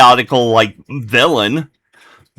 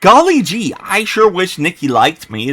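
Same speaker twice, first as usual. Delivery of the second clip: put-on high gee-whiz kid voice, lightly done; lightly mock an innocent old-timey boy; wholesome 1950s kid; 5 semitones higher than usual. That's not what he said.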